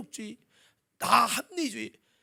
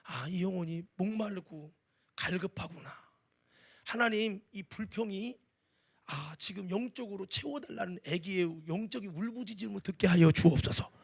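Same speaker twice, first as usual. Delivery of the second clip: gentle prayer; 3 semitones lower, 4 dB quieter than usual. Retold or imitated. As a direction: pray softly for the complainer. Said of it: "나는 어떻게 드려야죠?".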